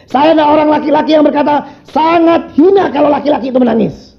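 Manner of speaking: high, emphatic sermon declaration; fervent preaching. Real, not acted. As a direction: proclaim it forcefully from the pulpit. Preaches at full force. (khotbah lantang dan tegas)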